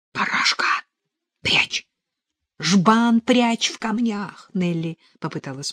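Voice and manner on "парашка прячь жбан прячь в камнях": urgent command in short bursts; urgent order. A narrator's reading. Girl ordering Parasha to hide the jug, urgent.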